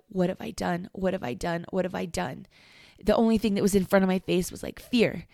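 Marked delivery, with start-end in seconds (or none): 0.1-2.5 quiet retold panic. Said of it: "sat up in panic thinking".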